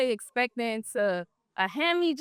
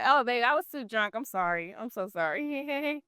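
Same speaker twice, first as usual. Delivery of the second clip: fake apology; 5 dB quieter than usual. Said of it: "I play dumb".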